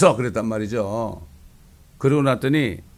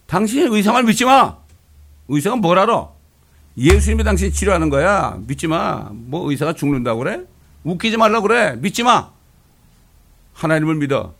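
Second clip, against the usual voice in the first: loud, higher insistent scolding; forceful insisting; 4 semitones higher, 6 dB louder than usual. Retold or imitated. Wife telling her sick husband not to believe the doctor, loud. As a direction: scold him out of his fear.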